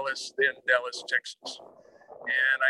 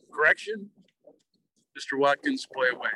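retold announcer's correction. Starter correcting himself over the reversed names, announcing a correction. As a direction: pipe up with a quick self-correction.

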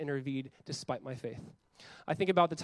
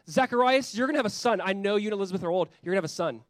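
loud, high proclaiming God; booming divine voice; 4 semitones higher, 5 dB louder than usual. Acted. God loudly promising Zacharias a son, booming.

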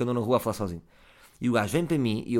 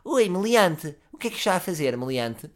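higher, louder put-on tough guy; voice not my own; 6 semitones higher, 3 dB louder than usual. Stepping in for the girl, first try at a hard-man voice. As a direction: puff up into a stranger's tough voice. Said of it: "faço uma voz que não é minha".

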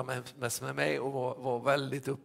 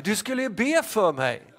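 louder, higher call across the salon; calling after; 8 semitones higher, 9 dB louder than usual. Retold or imitated. Barber calling after the departing pastor, loud reminder. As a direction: call after someone who is leaving. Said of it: "ropar han efter mig".

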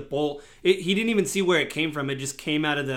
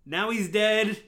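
goblin; 6 semitones higher than usual. Acted. Goblin voiced.

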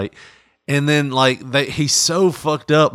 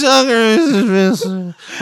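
mock rock singer; 7 semitones higher, slower than usual. Mocking a rock singer's cameo.

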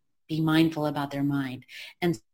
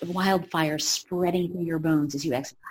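mock guided meditation. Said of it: "he's like".

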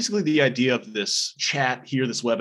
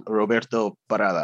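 Spanish accent; 3 dB louder than usual. Shown as a demonstration. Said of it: "saying that again in a Spanish accent".

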